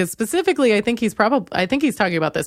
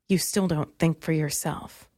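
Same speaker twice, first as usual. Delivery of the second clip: lower, much softer, ominous villain line; comic book villain; 5 semitones lower, 7 dB quieter than usual. Pretend. Mocking the ex's message as a villain's line, softly. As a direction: murmur it like a brooding comic book baddie. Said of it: "it sounds like a comic book thing to say".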